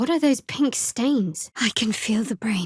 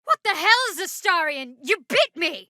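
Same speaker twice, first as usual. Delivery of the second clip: startled outburst; 7 semitones higher than usual. Acted. Companion bitten by vampire.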